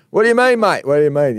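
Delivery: mock baffled player; indignant retort. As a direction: play the offended footballer snapping back. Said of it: "centre half back retorting".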